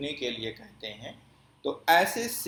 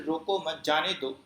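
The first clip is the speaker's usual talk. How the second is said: "روکو مت جانے دو" run together with barely a stop; only a tiny pause in "روکو مت جانے دو"; minimal pause; 2 semitones higher than usual. Shown as a demonstration. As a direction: let "روکو مت جانے دو" flow with the shortest break. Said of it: "تو یہ سب سے کم ٹھہراؤ ہوتا ہے".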